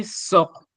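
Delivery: "sort" pitched high, as a tone demo. Shown as a demonstration. Teacher showing how the ton haut is pronounced, high tone. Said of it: "en prononçant un mot avec le ton haut".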